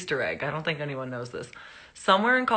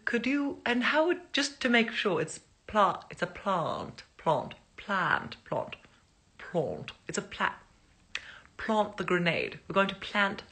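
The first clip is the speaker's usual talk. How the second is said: bad English accent; 5 semitones higher than usual. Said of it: "bad English accent".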